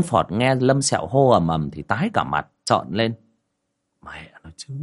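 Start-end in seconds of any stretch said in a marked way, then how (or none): 4.0-4.7 whispered curse. Acted. Master curses Lâm Sẹo's shouting.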